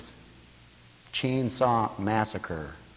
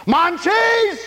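high loud baffled question; 8 dB louder than usual. Retold or imitated. Counselor shouting a baffled question to his wife. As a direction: ask it in disbelief. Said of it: "the next one was a question".

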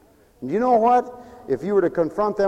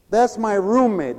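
scornful repeat; 4 semitones higher than usual. Retold or imitated. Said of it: "I can't fathom that".

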